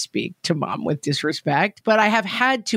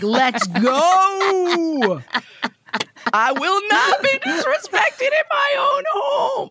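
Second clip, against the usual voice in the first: hammed-up rage, pitched way up and shouting, cracking with laughter; mock furious outburst; 14 semitones higher, much slower than usual. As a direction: play the outraged mom going to war, laughing through it. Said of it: "I am nuts on this topic".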